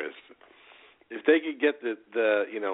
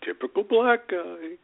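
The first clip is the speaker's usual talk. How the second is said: slow, high-pitched ironic jab; mock sarcastic; 8 semitones higher, much slower than usual. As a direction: drag it out as a deadpan joke. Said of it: "I speak for the entire Ready to Unload show when I say".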